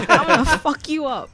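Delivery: high, loud mock-British threat; British dog voice. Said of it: "do it in his British voice".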